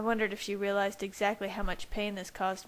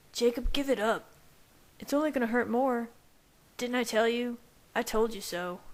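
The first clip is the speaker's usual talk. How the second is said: higher, mocking ribbing; teasing packmate; 4 semitones higher than usual. A narrator's reading. Packmate taunts Jacob in his head, mocking. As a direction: rub his nose in it.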